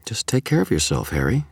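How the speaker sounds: worried. A narrator's reading. Susan ending the call to Harry, worried. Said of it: "worry in her voice".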